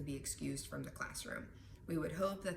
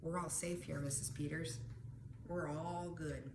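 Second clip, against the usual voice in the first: soothing self-talk; 3 dB quieter than usual. Retold or imitated. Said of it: "send messages to your brainstem".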